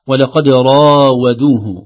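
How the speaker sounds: راودوه with a heavy ر and a light و, slow; full ر then thin و in راودوه. Shown as a demonstration. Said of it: "الراء مفخمة". (تفخيم الراء وترقيق الواو في راودوه)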